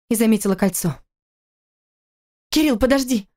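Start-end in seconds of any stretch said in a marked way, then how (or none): 2.5-3.3 raised, calling after him. Acted. Wife calling husband back from the door. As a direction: call him back across the room. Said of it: "позвала она".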